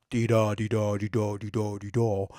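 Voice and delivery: quick dee-da chant, the da stressed; iambic beat. Shown as a demonstration. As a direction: rattle off the da-DUM meter. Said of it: "written in iambic pentameter".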